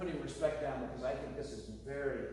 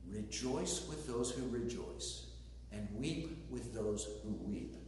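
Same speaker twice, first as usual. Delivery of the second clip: softer and slower, dwelling on each word of the verse; quiet, reverent reread; 3 semitones lower, 6 dB quieter, slower than usual. Shown as a demonstration. Pastor rereading his key verse to the congregation, softly. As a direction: savor it gently, low and unhurried. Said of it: "the verse that made me come to this passage".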